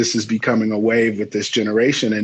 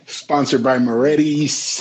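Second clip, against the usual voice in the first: drawn-out Chicago sponsor plug; generic Chicago announcer; Chicago accent; 2 semitones higher, slower than usual. Acted. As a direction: tack on a slow sponsor credit in a mock Chicago accent. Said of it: "my generic Chicago accent".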